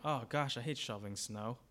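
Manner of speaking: mildly put-upon muttering; grumbling. Acted. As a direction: moan it like a habitual complainer. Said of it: "He grumbles all the time".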